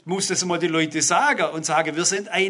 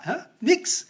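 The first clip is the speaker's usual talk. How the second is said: gespielt ungläubig; 8 semitones higher than usual. Pretend. Rhetorische Frage nach der Fitness.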